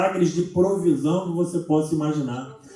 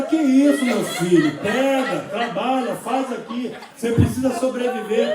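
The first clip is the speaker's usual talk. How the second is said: laughing through quote; 3 semitones higher, 4 dB louder, slower than usual. Retold or imitated. Imagined woman's reply, laughing.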